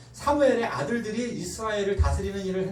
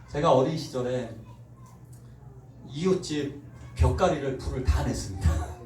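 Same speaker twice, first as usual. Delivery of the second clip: normal talking voice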